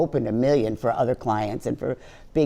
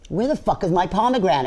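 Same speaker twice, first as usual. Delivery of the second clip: performed catchphrase; 4 semitones higher than usual. Shown as a demonstration. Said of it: "Say it".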